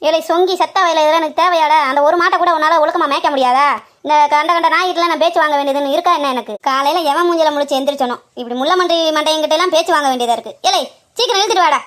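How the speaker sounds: loud furious scolding; furious yelling. Acted. Woman yelling at her useless helper after the quarrel, furious shout. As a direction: bawl him out at full voice.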